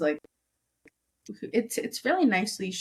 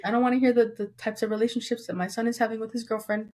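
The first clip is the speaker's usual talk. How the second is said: imitating mom; 2 semitones higher than usual. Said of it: "She's like".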